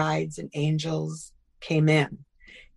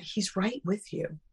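softly reassuring; 7 dB quieter, slower than usual. Retold or imitated. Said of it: "And I said".

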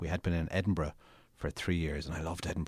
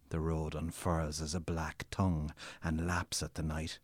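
dramatic story reading. Acted. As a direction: read your own novel like a performance. Author reads his novel aloud.

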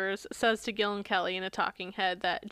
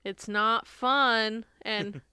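southern drawl; 3 semitones higher, 4 dB louder, slower than usual. Retold or imitated. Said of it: "they show Jackson saying".

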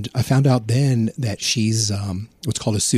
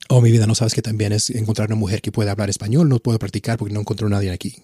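fast, a bit louder smooth Spanish pitch; pickup line in Spanish; 4 dB louder, faster than usual. Retold or imitated. The flirt at the bar pitching his Spanish to a woman, smooth and quick. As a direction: rattle it off like a charming Puerto Rican. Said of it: "I'd bust out in Spanish".

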